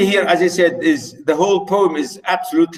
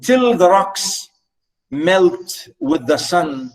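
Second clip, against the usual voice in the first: slow, spaced-out verse; poem reading; much slower than usual. Acted. Teacher repeating the image of love, slow recitation. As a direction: dwell on each word of the line.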